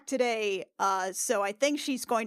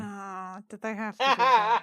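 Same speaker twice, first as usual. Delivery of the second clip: laughing; 6 dB louder than usual. Real, not acted. Embarrassed at herald's announcement.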